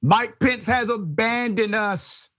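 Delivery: slow, knowing read with a wink; drawn out, sly and pointed; sly mock tweet. Host reading the president's tweet slowly and slyly. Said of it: "he decided to tweet".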